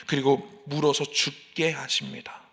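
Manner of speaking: slow, soft whisper of doom; hushed whisper. A narrator's reading. Preacher whispers the deadly outcome to the congregation. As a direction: let the judgment fall in a breathy hush. Grim end of the judgment.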